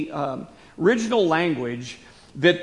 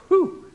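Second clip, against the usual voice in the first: whew of exertion. Real, not acted. Relief after demanding statement.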